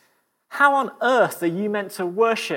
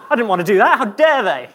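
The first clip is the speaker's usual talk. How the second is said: hammed-up angry complaint, louder as it goes; mock outrage; 3 semitones lower, 4 dB louder than usual. Preacher mocks an angry comedy-show goer, mock outrage. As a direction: play a theatregoer fuming about being made to laugh. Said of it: "would you be really angry about it and say".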